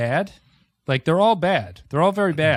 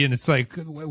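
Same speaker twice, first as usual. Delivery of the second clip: normal talking voice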